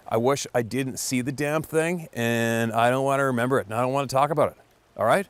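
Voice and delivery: mildly agitated buddy pushing back; half-hearted imitation of a fed-up friend; annoyed. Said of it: "And he got kinda angry".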